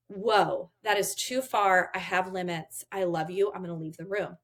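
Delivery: composed, firm parent setting a limit; calm limits. Shown as a demonstration. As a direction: stay unflustered and state the boundary evenly. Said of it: "you're staying calm".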